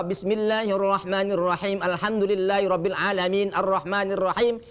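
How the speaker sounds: stops without breathing in; wrong way. Shown as a demonstration. Teacher demonstrating the wrong way to stop, muddled. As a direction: join the verses while sounding like stopping. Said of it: "Cara yang salah".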